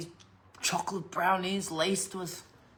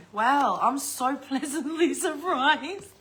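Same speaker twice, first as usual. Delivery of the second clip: sarcastic surprise; 4 semitones higher, 3 dB louder, slower than usual. Real, not acted. Sarcastic reaction to the gift.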